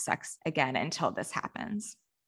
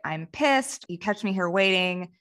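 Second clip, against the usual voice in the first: retold irritation. Carrie to Big after waiting half an hour, mildly irritated. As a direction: imitate someone annoyed at being kept waiting. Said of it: "she's extremely irritated".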